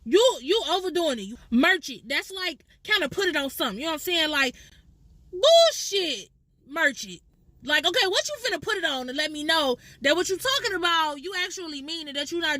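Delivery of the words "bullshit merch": scornful. Pretend. Mock dismissal in slang demo.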